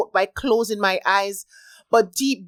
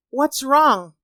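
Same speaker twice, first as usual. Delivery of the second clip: concerned motherly; 6 semitones higher, 4 dB louder than usual. A narrator's reading. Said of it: "concerned motherly voice".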